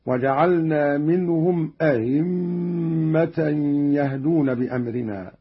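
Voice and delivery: أئمة with the second hamza softened, like a-himma; eased second hamza. Shown as a demonstration. Teacher shows Qalun's first way, أئمة with softened second hamza. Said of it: "بتسهيل الهمزة الثانية".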